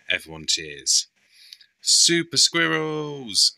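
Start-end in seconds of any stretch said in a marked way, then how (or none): 1.8-3.5 high, slow, excited shout; shouted cheer. A narrator's reading. Rolly cheering to his friends, excited shout. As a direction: cheer it out big. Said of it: "shouts Rolly".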